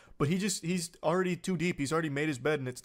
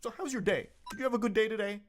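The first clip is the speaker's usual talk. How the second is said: higher, chirpy switch to friendly small talk; sudden cheery NPC; 5 semitones higher, much faster than usual. Retold or imitated. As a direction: flip instantly to fake sweetness like a game NPC. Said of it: "immediately de-aggroing, like an NPC".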